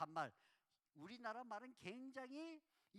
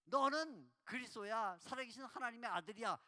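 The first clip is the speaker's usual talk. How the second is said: casual banmal; 8 dB louder than usual. Shown as a demonstration. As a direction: drop all respect, speak loudly as to an equal. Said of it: "이렇게 반말적으로 말한 거예요". (반말로 크게)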